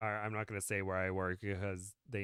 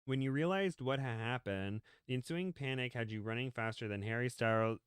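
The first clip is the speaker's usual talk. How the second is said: story narration; 2 semitones higher than usual. Acted. Reads a story aloud.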